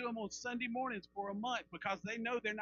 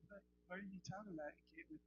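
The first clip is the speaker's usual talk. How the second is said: wife's puzzled reply; 12 dB quieter, faster than usual. Retold or imitated. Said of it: "and she".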